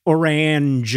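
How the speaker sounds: orange drawn out with a broad second syllable; bad-sounding orange. Shown as a demonstration. Co-host echoing the ugly word, orange said with a full "ange". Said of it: "just a bunch of bad sounds".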